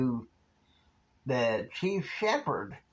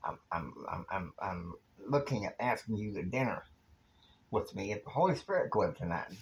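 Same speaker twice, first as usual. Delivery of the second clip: lightly voiced, low and hesitant invitation; 4 semitones lower, 4 dB quieter, faster than usual. J R asking Kristen to dinner, low hesitant voice. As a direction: stammer softly at first, then get it out in a low voice. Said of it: "And J R's like".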